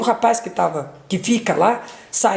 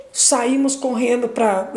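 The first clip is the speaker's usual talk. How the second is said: usual speaking voice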